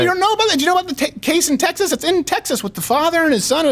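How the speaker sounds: high, exasperated disbelief; incredulous. Retold or imitated. Telling gym buddy about the Texas case, incredulous. Retelling own incredulous reply.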